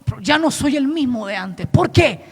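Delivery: understated retold lament; sincere confession. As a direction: confess weariness to God quietly. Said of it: "le dije".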